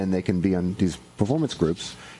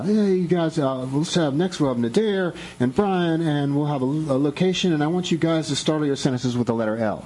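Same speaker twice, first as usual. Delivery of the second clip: higher-pitched mock host announcement; improv game host; 6 semitones higher than usual. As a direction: lightly act out setting up an improv game. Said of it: "someone will give someone a suggestion like".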